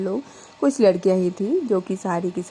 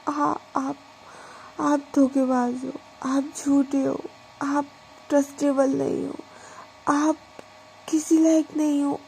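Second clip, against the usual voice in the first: hurt accusation; 4 semitones higher than usual. Acted. Diksha accuses her unfaithful wife.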